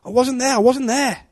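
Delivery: high cursing protest; cursing denial. Acted. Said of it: "begins to call on curses".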